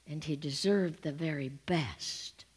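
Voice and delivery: breathed out in a reverent whisper; whispered to the congregation in awe. Real, not acted. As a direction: hush it like a prayer. Reverent hush in sermon.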